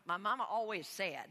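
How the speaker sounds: a hint of Southern accent; Forrest Gump. Pastor jokingly quoting her mama, light Southern accent. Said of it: "Forrest Gump".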